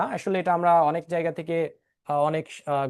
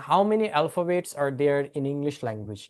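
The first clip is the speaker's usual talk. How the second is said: slow teacher question; 3 semitones lower, much slower than usual. Shown as a demonstration. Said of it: "এবার আমি আপনাদেরকে প্রশ্ন করব যে".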